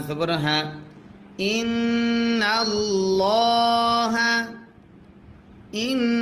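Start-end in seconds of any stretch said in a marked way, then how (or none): 1.4-6.2 ইন্নাল্লাহা with heavy, full lam, drawn slow and raised; ইন্নাল্লাহা, lam thick and resonant; thick lam in Allah. Shown as a demonstration. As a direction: darken the ল্লা of ইন্নাল্লাহা, mouth full. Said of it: "লাম তখন মোটা করে পড়তে হয়".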